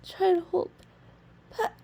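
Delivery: high, loud strained voice; holding back a sneeze. Real, not acted. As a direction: fight off a sneeze mid-word. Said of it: "sniffed the Chinkney".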